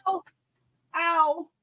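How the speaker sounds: sharp yelps of pain; yelping in pain. Real, not acted. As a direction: yelp from a phone dropped on the toe. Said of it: "My phone fell on my toe".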